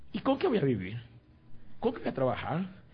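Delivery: mock worry about making a living; acted worried questioning. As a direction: ask it like a worried doubter. Acts out doubts about God's call.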